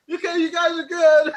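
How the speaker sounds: high, loud words through laughter; squealing with laughter at the punchline; laughing. Real, not acted. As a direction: crack up while delivering the line.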